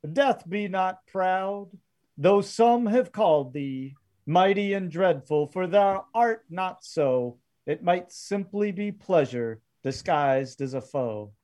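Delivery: a touch of solemn recitation, as Pete the gunman; lightly voiced poetic gunman. Game master voices gunman reciting verse.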